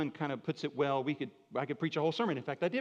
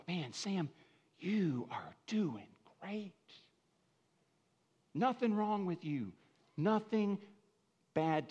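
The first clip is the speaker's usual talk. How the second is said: hushed mock praise; 2 semitones higher, 4 dB quieter, slower than usual. Mock praise of a righteous man.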